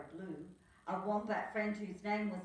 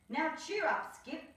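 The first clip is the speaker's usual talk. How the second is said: put-on high, louder little-girl voice, cheering him on; Nell's voice; 9 semitones higher, 6 dB louder than usual. Little Nell cheering up Skip, high girl voice. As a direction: perk up a friend, bright and high. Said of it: "said little Nell".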